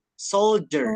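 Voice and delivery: "Soldier" as SOLE-jer; D dibaca J. Shown as a demonstration. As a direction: demonstrate "Soldier" with J in place of D. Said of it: "D-nya itu dibaca J". ("Soldier" dibaca sol-jer)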